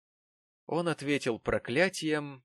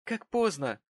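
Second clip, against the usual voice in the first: lightly cheerful, higher voice; 6 semitones higher than usual. A narrator's reading. Wife greeting her husband with forced cheer. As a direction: brighten up to cheer him. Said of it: "сказала она весёлым тоном".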